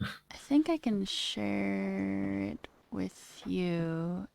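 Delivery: unvoiced slow whisper. Real, not acted. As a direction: breathe it almost silently. Whispered aside.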